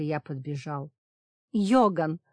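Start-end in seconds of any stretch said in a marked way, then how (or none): 1.5-2.2 high, loud desperate plea; pleading cry. A narrator's reading. Safira begs Yogan to save Kiran, loud pleading cry. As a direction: beg him loudly to save Kiran. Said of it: "с мольбой попросила она".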